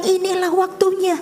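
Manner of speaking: high, insistent retold exhortation; urgent pleading. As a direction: plead with her, each warning pressing harder. Pendeta mendesak ibu lewat telepon. (desakan memohon dengan nada tinggi)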